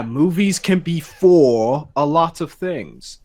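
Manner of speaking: slow, slight English accent; unwitting English accent. Real, not acted. Host slipping into his YouTuber voice unawares, English accent. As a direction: slip lightly into an English accent, drawn out. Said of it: "you did the English thing".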